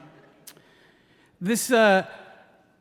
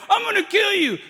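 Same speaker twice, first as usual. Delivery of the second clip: put-on drunk jock bluster; 12 semitones higher than usual. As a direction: shout it, hoping to be held back. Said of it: "drunk jock".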